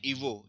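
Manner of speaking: ईवो with a v sound for written g; read with v. Shown as a demonstration. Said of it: "देखो इसको पढ़ते हैं". (ईवो में ग की जगह व)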